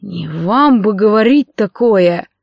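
slow, clenched rebuke with the weight on "вам"; slow, held-down anger, stressing "вам"; through gritted teeth. A narrator's reading. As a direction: keep the anger locked behind the teeth. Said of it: "сквозь зубы проговорил Джандар".

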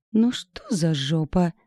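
lightly tipsy, slow cooing. Acted. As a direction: coo it like a slightly drunk friend. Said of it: "заметно пьяненьким голоском проворковала". (слегка пьяненьким воркующим голоском)

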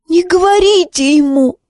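put-on high, desperate boy's plea; pleading. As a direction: beg him not to tell, high. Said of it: "взмолился Зар". (Зар умоляет командора, высоким отчаянным голосом)

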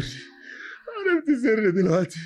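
very slow, creeping threat; slow menacing drawl. Acted. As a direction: savor each word like a madman. (تهديد بطيء ومخيف)

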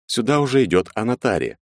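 usual speaking voice

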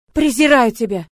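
furious screaming. Acted. Heroine screaming accusations at Murat, furious. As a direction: hurl every word at him. She shouts contempt.

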